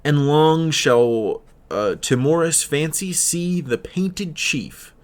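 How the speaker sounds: slow verse reading, stretched long; poem recitation. Acted. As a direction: read the line as poetry, not by stresses. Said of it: "would read".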